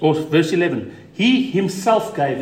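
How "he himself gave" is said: "he himself gave" slowed, each word pressed down; emphatic. Shown as a demonstration. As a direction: lean on "he himself gave" slowly. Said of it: "It's emphatic".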